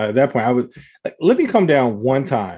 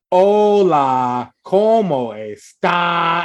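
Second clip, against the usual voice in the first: exaggerated slow Spanish greeting, pitched up; mock slow Spanish; 4 semitones higher, 3 dB louder, much slower than usual. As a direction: greet her like a tourist talking down. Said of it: "I wish somebody would be like".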